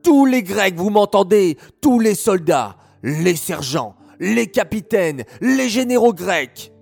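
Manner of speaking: wicked king roaring with rage; furious yelling king. Acted. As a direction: bellow orders at his army in fury.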